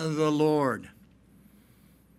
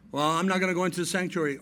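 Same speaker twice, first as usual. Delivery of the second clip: stubborn daughter; much faster than usual. Retold or imitated. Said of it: "daughter refusing".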